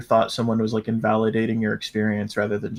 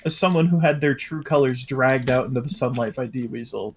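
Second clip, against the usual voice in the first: sarcastic. Real, not acted. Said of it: "that, that's sarcasm".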